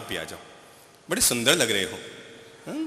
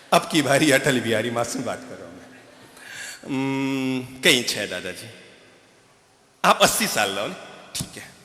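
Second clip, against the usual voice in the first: ordinary talk, nothing marked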